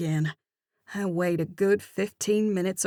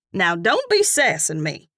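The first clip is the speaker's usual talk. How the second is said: mock scolding; 5 dB louder than usual. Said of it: "she laughs as she points".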